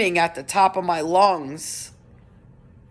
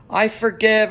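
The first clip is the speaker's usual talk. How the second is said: higher and louder, a mild mock scream of release; crying out forgiveness, only half as loud as the real scream; retold scream; 4 semitones higher, 4 dB louder than usual. To her daughter at the deliverance, mild mock yell. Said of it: "I just screamed at the top of my lungs".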